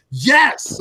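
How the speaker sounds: high, delighted cheer of "Yes!"; cheering as the guest returns; excited yes. Retold or imitated. Thrilled fan reliving Keem's comeback, a high excited yes.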